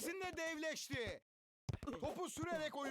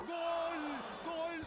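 screaming football commentator; 4 dB louder than usual. Acted. Goal calls in commentary.

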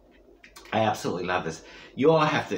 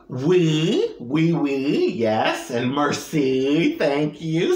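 French words; much slower than usual. Shown as a demonstration. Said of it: "Wanna hear?".

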